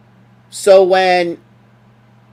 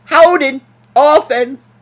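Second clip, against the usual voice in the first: imitating referee; 8 semitones higher than usual. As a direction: announce it like the ref. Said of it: "love the way he says it".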